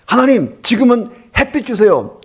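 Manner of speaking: high-pitched, eager farmers' request; acted-out gleeful plea; excited prayer. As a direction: call up to God, thrilled to be asking. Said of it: "농부들이 신나서 이제 기도하는 거예요".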